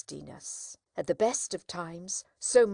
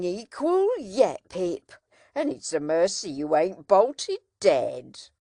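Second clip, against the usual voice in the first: earnest blacksmith; 7 dB louder than usual. A narrator's reading. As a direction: lay it on heavily with honest concern. Joe lecturing Pip at length.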